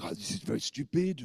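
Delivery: annoyed. Retold or imitated. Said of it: "He got very annoyed and went".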